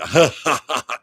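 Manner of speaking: loud mock belly laugh; imitated deep laughter. Daughter overhearing Lucy's laughter from the next room, imitated deep laughing. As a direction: imitate a big throaty laugh. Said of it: "had a very deep voice".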